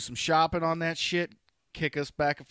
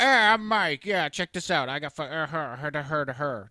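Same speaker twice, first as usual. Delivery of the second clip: mocking Mike; 4 dB louder than usual. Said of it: "be like".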